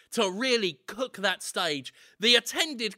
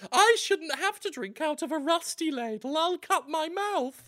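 mocking whiny Jonathan; 7 semitones higher than usual. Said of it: "Next, you're gonna be telling me".

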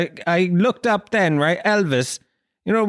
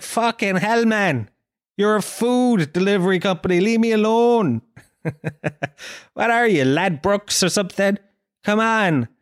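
higher-pitched mock outrage; plead, fed up, pitch up; exasperated protest; 4 semitones higher than usual. Dieter telling food delivery apps to leave him alone, exasperated.

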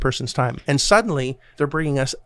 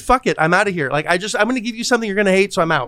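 fast, mock fed-up outburst, higher; pissed off; 5 semitones higher, faster than usual. Harry brushing off the agent, fast and fed-up. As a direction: rattle it off like you're done with them. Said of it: "he was just pissed off and said".

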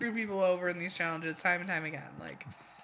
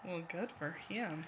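put-on Southern accent; 3 semitones lower, 10 dB quieter than usual. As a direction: say it with a Southern twang. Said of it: "was that your Southern accent voice".

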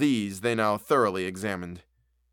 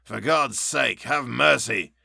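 Hyde's pleading voice; slower than usual. A narrator's reading. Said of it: "that's not Jekyll's voice. It's Hyde's".

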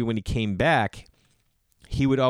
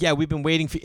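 a bit higher, playful imitation of the clerk; mock clerk; 6 semitones higher, faster than usual. Retelling the bakery clerk's line, light mock voice. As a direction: tease the clerk's eerie calm. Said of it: "They're, like, sitting there like".

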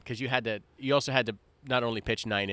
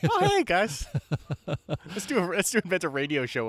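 silly high voice; 6 semitones higher than usual. Retold or imitated. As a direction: squeak it like a cheery fool. Voicing other time travelers.

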